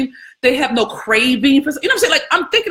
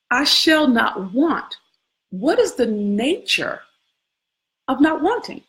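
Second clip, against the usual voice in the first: slow contemplative musing; slower than usual. Acted. Slow, drawn-out contemplative repeat.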